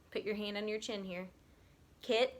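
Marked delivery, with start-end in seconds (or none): 2.0-2.3 "Kitten" with a clear gap after kit; "Kitten" in two separate beats; split into syllables. Shown as a demonstration. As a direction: say "Kitten" as two chin drops, kit, ten. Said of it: "anytime that your chin goes down".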